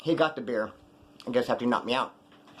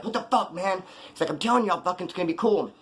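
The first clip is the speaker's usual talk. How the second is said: higher-pitched mock exasperation; livid, retold; 4 semitones higher than usual. Retelling his livid friend's reaction, mock-angry. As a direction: imitate someone pissed off and protesting. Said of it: "He's livid".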